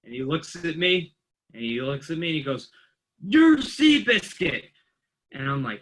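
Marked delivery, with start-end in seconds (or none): 3.2-4.7 high, slow, put-on voice of the teasing training officer; mock announcing. Training officer telling the new guy his nickname, high and slow. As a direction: hand down the nickname like a verdict. Retelling Gary naming him.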